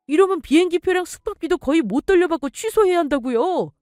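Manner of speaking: son protesting. Acted. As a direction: son pleads against cancelling the trip. Son protests the cancelled trip. (아들이 억울하게 항의하듯)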